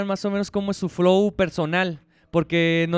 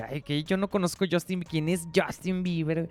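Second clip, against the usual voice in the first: proud ignorance; 5 dB quieter than usual. Acted. Mocking people who boast of not knowing stars, feigned ignorance. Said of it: "lo proclaman como orgulloso".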